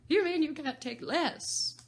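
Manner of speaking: high, loud, slow quibble; a mocking hatter. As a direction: twist her words as the Hatter. Hatter voiced in story.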